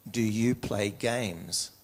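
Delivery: very slow, deliberate imitated colonel; colonel's measured question. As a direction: draw the question out as the old colonel. Acts out the old colonel questioning.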